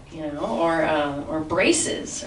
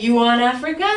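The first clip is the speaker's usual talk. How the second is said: punchier quote with a touch more push; more energy; 4 semitones higher, 4 dB louder than usual. Retold or imitated. Comic coaching her to give the lover more energy, punchy. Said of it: "so just more energy".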